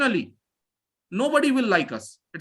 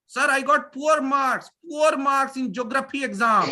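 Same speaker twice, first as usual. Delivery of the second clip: mimicking a student; 4 semitones higher than usual. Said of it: "we follow that".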